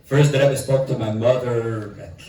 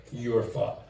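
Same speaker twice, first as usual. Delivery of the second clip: elegant address; 7 dB quieter, slower than usual. Shown as a demonstration. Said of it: "when you talk to a king".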